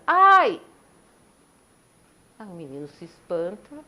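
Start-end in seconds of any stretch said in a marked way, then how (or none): 0.1-0.6 echoed cry. Retold or imitated. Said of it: "o menino escuta".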